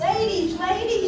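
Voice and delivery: loud, high call across the room. Acted. Housekeeper calling the maids to come see. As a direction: call the ladies over.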